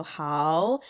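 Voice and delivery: "hao" with a rising second tone. Shown as a demonstration. Teacher showing hao before another third tone, rising "hao". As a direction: lift "hao" upward like a question. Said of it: "say hao as the second tone".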